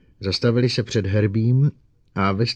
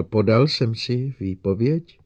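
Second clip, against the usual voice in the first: unsure repeat; 3 semitones higher, 4 dB louder than usual. Acted. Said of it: "trochu nejistě opakoval".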